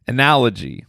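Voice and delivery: Analogy. said low and falling, ah-NAL-ogy; correct pronunciation. Shown as a demonstration. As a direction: say Analogy. properly. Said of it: "there we go".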